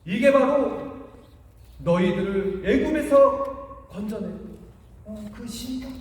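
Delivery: showing off the calf to the crowd, hammed-up; proclaiming the calf as their god; mock proud idol-maker. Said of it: "그러면서 뭐라고 그랬냐면은".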